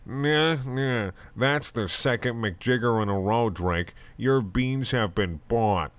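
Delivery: lightly done lazy cat drawl on "Your beans have been bought"; a hint of a bored lazy cartoon cat; Garfield voice. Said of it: "in my fucking Garfield voice".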